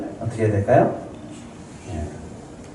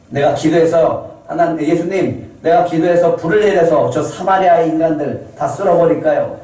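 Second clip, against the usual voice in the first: raised, eager mock prayer to wipe them out; mock zealous prayer; 5 semitones higher, 3 dB louder than usual. Disciple praying for fire, mock zealous and raised. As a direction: ham up a self-righteous plea. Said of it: "이렇게 기도합니다".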